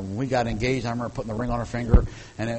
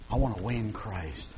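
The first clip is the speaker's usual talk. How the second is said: usual speaking voice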